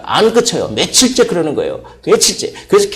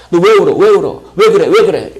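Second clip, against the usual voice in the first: anxious questioning; 5 semitones higher, 6 dB louder than usual. Retold or imitated. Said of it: "이렇게 바꿨다고 합니다".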